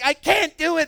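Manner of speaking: whine-yell that it's impossible; boy yelling back at his mom over piano; retold yelling back. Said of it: "and I'm yelling back".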